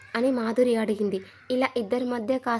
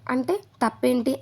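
making a scene; 4 dB louder than usual. Retold or imitated. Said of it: "Madhuri రచ్చ చేసింది".

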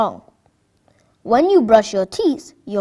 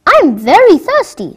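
put-on thirsty child; 7 semitones higher, 7 dB louder than usual. Thirsty child voiced in story.

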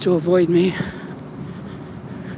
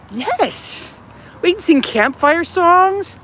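mock excited; 10 semitones higher, 4 dB louder, slower than usual.

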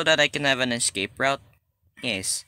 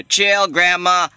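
loud slow plea; 6 semitones higher, 8 dB louder, slower than usual. Real, not acted.

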